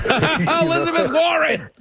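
laughing out the name, high; laughing exclamation. Real, not acted. Host laughs recalling Warren's kitchen video, laughing exclamation.

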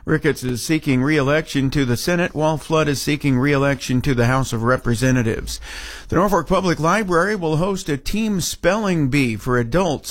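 steady radio newscaster delivery; local news read. Acted. Newsroom anchor reporting on a senator's visit, news read. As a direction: read the story evenly, in measured phrases.

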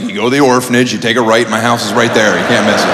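low, matter-of-fact directions; giving directions. Acted. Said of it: "Been like".

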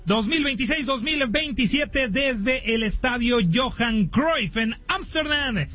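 punchy radio announcer intro with stretched key words; sports broadcast opening. Acted. Host welcomes radio listeners to the Nations League opener, sports announcer delivery. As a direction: present the big match, leaning on names.

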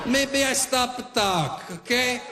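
hammed-up Italian father threatening a stranger; Italian-accented mock tough guy; Italian dad. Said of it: "My Italian dad right away".

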